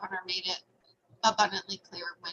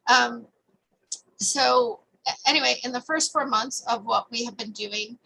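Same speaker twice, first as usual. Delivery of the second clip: speaking louder; 3 semitones higher, 5 dB louder than usual. Real, not acted. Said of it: "I will try to speak louder".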